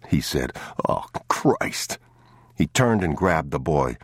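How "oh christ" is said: hushed oath. A narrator's reading.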